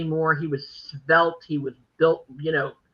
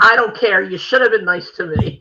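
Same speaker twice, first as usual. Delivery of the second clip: mock yell; 6 dB louder than usual. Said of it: "I still wanna yell at him".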